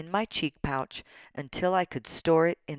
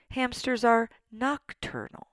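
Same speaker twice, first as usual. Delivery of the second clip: higher, lightly squeaky hamster voice; a hint of a squeaking hamster; squeaked; 7 semitones higher than usual. A narrator's reading. Hamster correcting the class, lightly squeaked. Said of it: "I squeaked".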